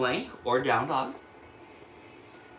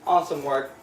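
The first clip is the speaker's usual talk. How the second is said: high, whooping congratulation; cheering; 10 semitones higher, 5 dB louder than usual. Real, not acted. Yoga teacher to class finishing the sun salutations, cheering. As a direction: cheer them on with a high woo.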